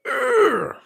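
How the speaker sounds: very high, loud squealed noise; short burst of hammed-up squealing; high-pitched squeal. After claiming to be the doctor, mock squeal.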